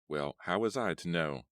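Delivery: loud, defensive protest; a scowling vampire protests loudly; angry. Acted. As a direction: throw the question back at her, angry. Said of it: "Gabri asked angrily".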